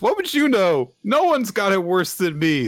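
put-on bitter girl. Asa rejecting Denji's sympathy, high and bitter. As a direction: snap back hurt. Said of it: "And just".

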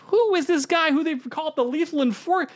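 lightly voiced Venom growl; a hint of a monster symbiote. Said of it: "doing that voice for Venom".

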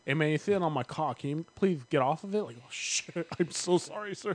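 lightly voiced Mike Tyson, barely changed; a weak, half-hearted Mike Tyson; bad Mike Tyson impression. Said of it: "bad Mike Tyson impressions".

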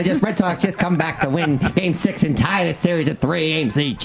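put-on old-time radio announcer voice; old-timey announcer. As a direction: read it like a vintage ballgame caller. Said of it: "trying to get an old-timey guy".

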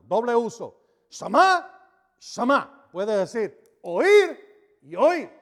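loud and high, Shama sung out on a rise; Shama, Shama shouted high; emphatic preaching cry. Shown as a demonstration. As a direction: hammer the double word home. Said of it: "Está enfatizándolo".

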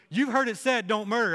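put-on preacher booms the old law to the crowd, emphatic; emphatic quote. Preacher quoting Jesus with force.

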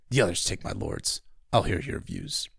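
a hint of a stern king, jaw clenched; lightly voiced grim king; Stannis voice. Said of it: "I always try to clench my jaw when I do the Stannis lines".

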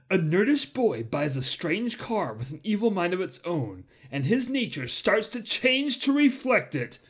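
movie trailer announcer, slow and dramatic. Shown as a demonstration. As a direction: read it like a trailer voiceover. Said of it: "I didn't do my announcer voice".

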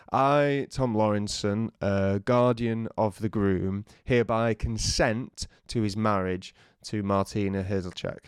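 formal reading. Retold or imitated. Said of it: "a bit of paper that says".

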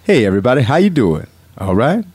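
lightly voiced, easygoing announcer; a hint of friendly urban announcer. Shown as a demonstration. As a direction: greet the crowd as a laid-back announcer. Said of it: "announcer voice is this".

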